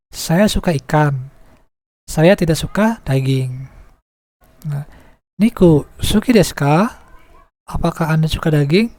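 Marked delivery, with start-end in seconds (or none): 5.4-7.0 "ka" at the end of "Niku suki desu ka?" rises as a question; rising question. Shown as a demonstration. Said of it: "ucapkan dengan menaikkan intonasinya". (intonasi naik pada "ka")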